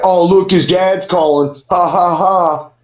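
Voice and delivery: slow, jeering gloat with fake laugh; mocking gloat. Door guy taunting the robbed kid, jeering. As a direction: sneer at the kid's dad calling. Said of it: "And he's like".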